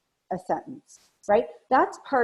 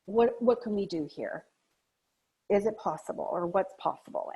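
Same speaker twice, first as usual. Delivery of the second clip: gentle check-in; 4 dB quieter than usual. Shown as a demonstration. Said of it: "it's very important that we check in with that".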